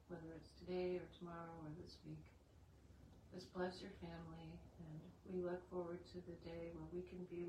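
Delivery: earnest group prayer, steady and reverent. Acted. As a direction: pray aloud for the gathered family. Opens the meeting in prayer.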